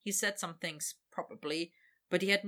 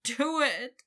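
higher, louder urgent beg; begging; 6 semitones higher, 7 dB louder than usual. Acted. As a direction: plead with urgency. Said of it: "Victor begged".

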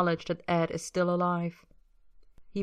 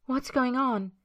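urgent; 6 semitones higher than usual. A narrator's reading. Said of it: "voice urgent".

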